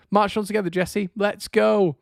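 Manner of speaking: high, slow hammed-up cheer; cringy rallying cry. Fan re-enacting his cringy call to the manager. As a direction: drag it out like a cheesy pep talk. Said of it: "but it was like".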